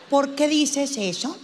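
slow, measured therapist question; probing psychologist. Acted. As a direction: ask slowly and neutrally. Psychologist probes the patient.

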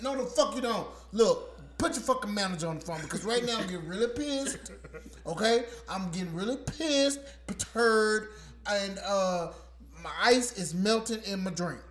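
loud, half-laughing anger; mock furious caller. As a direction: yell at the agent while cracking up. Acted quarrel with phone agent.

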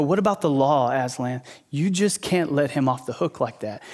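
lightly voiced accuser, held back; understated challenge over a broken law; White Witch. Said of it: "the White Witch comes to Aslan and go".

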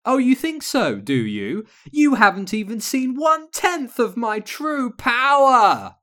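high, loud villainous gloating; hammed-up wicked witch, shrieking at the climax; cackling evil witch. A narrator's reading. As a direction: crow it like a storybook witch, building to a shout. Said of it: "The Black Witch of the North cackled".

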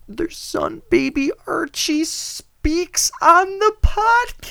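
rising, slow, overblown announcement; mock hype. Hosts mocking the royal news, hammed-up excitement. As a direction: build it up like breaking news.

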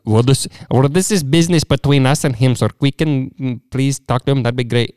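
mock Indian caller. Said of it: "those call centers that try".

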